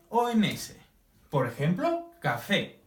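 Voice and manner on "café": "café" with the weight on "fé"; stress on final syllable. Shown as a demonstration. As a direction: lean on the last syllable of "café". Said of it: "Pronunciamos más fuerte el fe".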